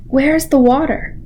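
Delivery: small, raspy little voice. Acted. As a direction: rasp it out small. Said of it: "said in a small, raspy voice".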